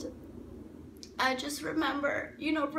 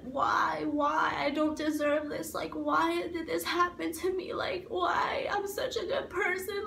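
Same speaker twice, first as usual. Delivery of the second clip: tearful retold plea, building higher; retold anguished screaming; 3 semitones higher than usual. Crying out why in the ambulance, retold anguished plea. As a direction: relive the outcry through tears, without full screaming. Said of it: "I screamed. I said".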